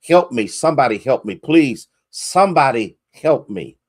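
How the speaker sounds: loud, fast cries for help; desperate yell for help. Retold or imitated. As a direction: call out hanging from a cliff. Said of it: "he yells out".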